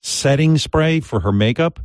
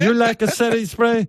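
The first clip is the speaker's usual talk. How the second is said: very high, girly, feminine put-on voice. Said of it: "I forgot to use my girl voice".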